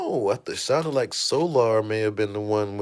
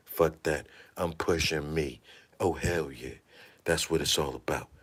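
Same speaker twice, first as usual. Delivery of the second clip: smug low murmur; 9 semitones lower, 8 dB quieter than usual. Retold or imitated. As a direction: lower and softer, self-satisfied. Thief's smug mirror speech.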